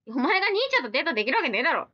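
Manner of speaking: rapid teasing put-down; rough mock retort. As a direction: snap back at the comment, half joking. Rough retort to viewer comment.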